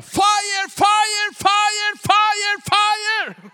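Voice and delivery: high, loud ecstatic cries of fire; screaming crowd. Retold or imitated. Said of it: "börjar skrika".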